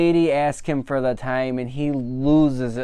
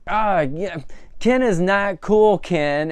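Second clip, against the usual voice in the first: mock dismissive Barbie; 6 semitones higher, slower than usual. Barbie brushing off Ken.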